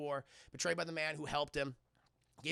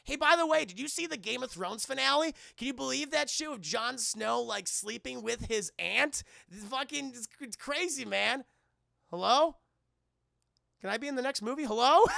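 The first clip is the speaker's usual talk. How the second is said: higher and louder, babbling caller; hammed-up chatter; 6 semitones higher, 7 dB louder than usual. Reynolds pestering The Rock, loud hammed-up babble. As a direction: ramble on eagerly, then call out. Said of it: "He's like".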